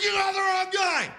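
high, strained yell of a wrongly arrested man; mock protest yell. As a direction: plead innocence, hammed up.

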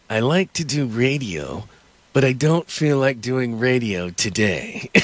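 slow, drawling Jack Nicholson voice; Jack Nicholson impression. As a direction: lay back and drag the words like Jack Nicholson. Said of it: "And he goes".

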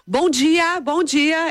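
high, chirpy imitated hello; eager child's greeting. Daughter greeting two unknown ladies, imitated eager high voice. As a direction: greet everyone like a keen little girl.

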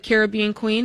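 Caribbean said care-ib-BEE-an; Caribbean as in the song, stress on BEE; stress on third syllable. Retold or imitated. Host cites a song for her pronunciation, Caribbean stressed on BEE. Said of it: "I gotta go with the singer".

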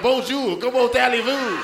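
lightly put-on French accent; a hint of French greeting. French guy Henri greets him in a light French accent. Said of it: "he's like".

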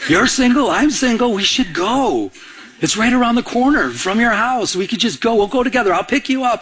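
eager friend. Retold or imitated. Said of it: "He says".

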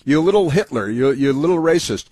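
lightly voiced, sneering mock tirade; mock Al Green rant. Host mocks Al Green's outburst.

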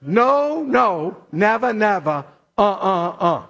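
rhythmic "never, never", then "uh, uh, uh"; emphatic negation. Shown as a demonstration. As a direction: lead a chant of refusal, beat by beat. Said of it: "We practice that together now?".

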